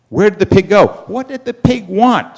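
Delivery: high-pitched puzzled outcry; baffled raccoon. Acted. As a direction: ask in bewilderment, pitch climbing. Raccoon finds the pig gone.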